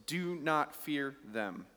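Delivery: "not" held and stressed, slow and deliberate; slow and emphatic. Shown as a demonstration. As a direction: lean on "not" in "Do not fear them". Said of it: "Common phrase".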